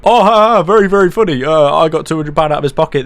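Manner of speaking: high, loud fake laugh into a jeer; mock gloating. Girl laughing about the robbery, high mocking imitation. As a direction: imitate her gloating in a sing-song mock voice.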